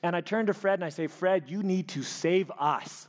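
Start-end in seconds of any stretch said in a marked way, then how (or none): 1.1-3.1 slow, deliberate plea for rescue; measured, word-by-word appeal; retold earnest plea. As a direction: spell it out slowly to a friend.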